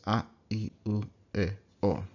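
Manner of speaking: a, I, u, e, o clipped short without glide; short pure vowels. Shown as a demonstration. Teacher repeating the short vowels. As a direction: say each vowel short and clean. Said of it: "Really short".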